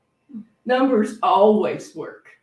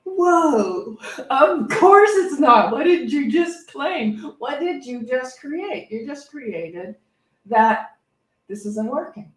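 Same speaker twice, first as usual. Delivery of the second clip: amused self-scolding; 4 semitones higher, 5 dB louder, slower than usual. Retold or imitated. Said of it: "And it's like".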